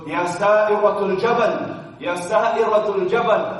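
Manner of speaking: loud, high, drawn-out call; calling out across distance. Retold or imitated. Umar on the pulpit calling to his commander, loud slow call. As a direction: call out slowly as if across a whole country. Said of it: "And he's calling from Medina".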